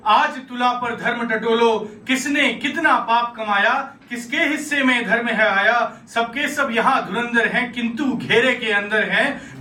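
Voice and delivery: rhythmic verse recitation with a touch of anger; angry, sarcastic questioning. Acted. Karna confronts Krishna with questions about dharma, mildly angry sarcastic verse. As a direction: recite it as pointed, measured poetic challenges. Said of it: "गुस्सा देखिएगा, आप व्यंग देखिएगा".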